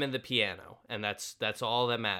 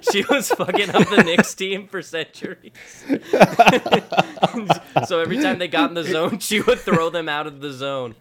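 laughing; 7 semitones higher, 12 dB louder than usual. Real, not acted. Laughing telling Knicks joke.

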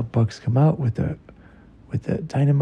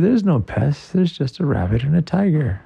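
Tail; 4 semitones higher than usual. Acted. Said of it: "And Tail said".

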